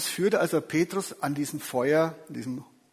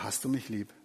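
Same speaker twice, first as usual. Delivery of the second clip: softer, tender asking; gentle question; 3 semitones lower, 6 dB quieter than usual. Shown as a demonstration. Jesus gently asking Petrus, softer and tender. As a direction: ask it simply, with no blame at all. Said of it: "Jesus fragt nur".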